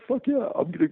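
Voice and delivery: gleefully hyping himself up inside; excited inner voice. Retold or imitated. Telling how he cheered inwardly before meeting Frank, excited. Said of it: "in my mind, I'm going".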